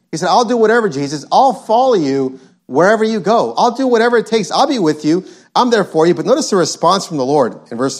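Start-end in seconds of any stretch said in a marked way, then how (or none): 0.3-6.1 mock eager boasting, pitch jumping up; hammed-up boastful pledge; bragging. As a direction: play a man making big promises. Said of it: "he's just bragging".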